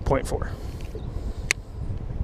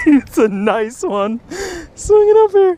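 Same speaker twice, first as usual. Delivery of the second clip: thrilled, louder call as fish comes up; excited; 12 semitones higher, 5 dB louder than usual. Real, not acted. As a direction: swing it up, full of excitement. Hauling the fish in.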